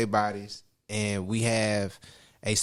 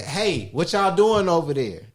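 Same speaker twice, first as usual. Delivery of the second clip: loud, commanding, authoritative call from a distance; 7 semitones higher, 6 dB louder than usual. Showing how to call out to people from a distance: loud authoritative voice. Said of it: "say it with an authoritative voice loud enough".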